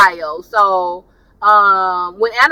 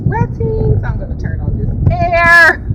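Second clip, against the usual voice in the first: 1 little high voice; 9 semitones higher than usual. Real, not acted. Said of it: "stop talking in my little high voice".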